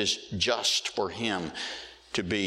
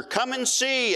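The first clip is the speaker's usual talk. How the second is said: much higher, loud proclaiming cry; voice like thunder; 14 semitones higher, 4 dB louder than usual. Acted. Living voices calling to John, loud thunderous cry. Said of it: "crying with a voice like thunder".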